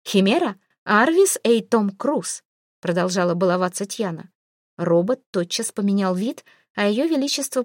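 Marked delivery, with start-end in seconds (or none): 0.1-2.4 command to a device. Acted. Queen gives voice command again.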